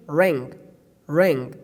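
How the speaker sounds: ring, hum the ending through the nose; nasal ng. Shown as a demonstration. Teacher using English ring to show hidden n. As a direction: ring with a nasal ng, the n not said sharply. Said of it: "Here we pronounce the letter N, but not very explicitly".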